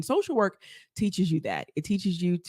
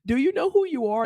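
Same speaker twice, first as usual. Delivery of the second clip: inner voice Betty; 8 semitones higher, 5 dB louder than usual. Retold or imitated.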